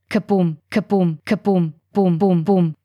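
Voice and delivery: thumping drumbeat chant, beat by beat; a pounding percussion solo; drumming heartbeat. A narrator's reading. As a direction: knock the beats out like a drum. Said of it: "lautes Percussion-Solo".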